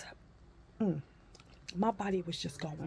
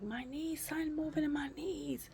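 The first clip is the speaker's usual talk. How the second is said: higher-pitched mock whimper; retold distress; 8 semitones higher, 4 dB quieter than usual. Patient telling staff about her knees, mild distress. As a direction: complain in a high, alarmed voice.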